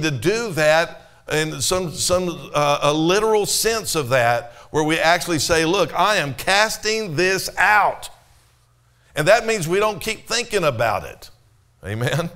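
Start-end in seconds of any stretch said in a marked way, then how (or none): 5.7-8.1 slow, higher, emphatic declaration; firm declaration. Acted. Believer casting out a bad thought, firm and slow. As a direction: declare it slowly, each word deliberate.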